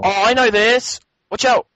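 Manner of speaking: high-pitched, urgent warning; excited warning. Real, not acted. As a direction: call out a sudden warning. Warning co-player during game.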